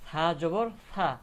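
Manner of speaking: loud, slow, drawn-out সা; pronunciation demo. Shown as a demonstration. Teacher showing how the letter sa sounds, pronunciation demo. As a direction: project সা and hold its long vowel. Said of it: "সায়ের উচ্চারণটা কেমন হবে".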